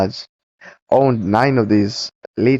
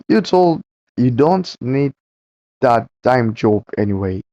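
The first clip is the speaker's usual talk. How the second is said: indignant; 2 semitones higher than usual. Acted. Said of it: "said my poor dad with indignation".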